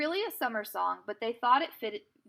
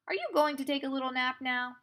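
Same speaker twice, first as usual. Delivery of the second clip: polite; 3 semitones higher than usual. Acted. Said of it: "asked Pippi politely".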